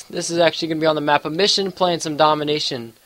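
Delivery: stuffy nose, allergy congestion; congested. Real, not acted. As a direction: speak through a blocked nose. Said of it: "if I do sound a little congested".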